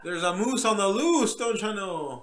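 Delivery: lightly imitated Canadian accent; playful hint of a northern Canadian accent; mock Canadian accent. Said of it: "I think that's Canadian".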